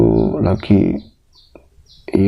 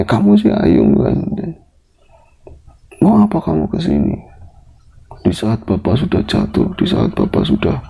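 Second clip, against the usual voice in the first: angry father. Retold or imitated. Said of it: "justru dia marah sama saya". (bapak memarahi anak, makin pelan di akhir)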